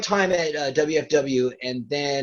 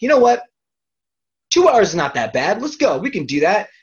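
self pep talk; 6 semitones higher, 6 dB louder than usual. Retold or imitated. Psyching himself up to drive.

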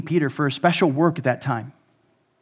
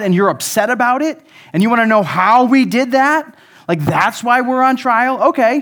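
incredulous, sarcastic retort, a bit louder; mock sarcastic; 3 semitones higher, 4 dB louder than usual. Peter answering the religious leaders, sarcastic disbelief. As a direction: play it with dry disbelief. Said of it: "Okay, that's the sarcasm".

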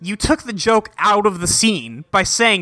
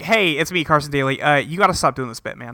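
understated real TV host, lower than the impostor; Carson Daly; 3 semitones lower than usual. Retold or imitated. The real host interrupts his impostor, lightly voiced and low-key. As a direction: introduce yourself matter-of-factly, lightly in character. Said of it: "then Carson Daly comes around the corner".

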